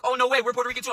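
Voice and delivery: high, excited little squeal of surprise; mock excitement. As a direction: play the thrilled customers finding a countryman. Imitating excited customers.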